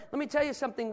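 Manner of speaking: usual speaking voice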